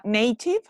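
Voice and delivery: "native" with a long ay, NAY-tiv; correct pronunciation. Shown as a demonstration. Teacher introducing corrected word, correct pronunciation. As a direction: say "native" with first syllable nay. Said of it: "not native".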